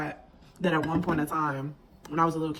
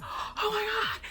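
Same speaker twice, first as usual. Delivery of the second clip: much higher, excited squeal; hyped squeal. Retold or imitated. Recalling Disney crossover episodes as a kid, hyped squeal. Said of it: "I'm like".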